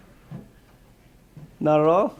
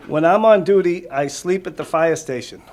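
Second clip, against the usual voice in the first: clear, lively storybook read-aloud, louder; reading to children; 2 semitones higher, 5 dB louder than usual. Acted. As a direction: read it out to the kids with energy. Firefighter reads picture book aloud.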